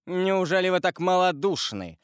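high scornful cry; husband scorning his wife's cowardice; contemptuous exclamation. A narrator's reading. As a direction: sneer it at her. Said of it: "воскликнул с презрением Вильфор".

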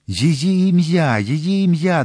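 high, loud, insistent demand; urgent questioning. A narrator's reading. Young man demands the woman's name from his beloved, urgent questioning. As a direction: press hard for an answer. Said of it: "допитувався Дартаньян".

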